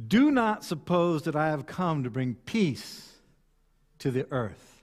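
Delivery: measured, solemn reading with long pauses; scripture reading. Acted. Preacher reading Jesus' words to the congregation, measured and solemn.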